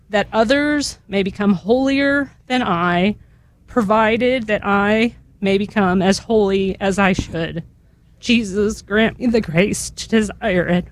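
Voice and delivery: slow, measured litany prayer; prayer reading. Acted. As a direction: pray each line slowly and reverently.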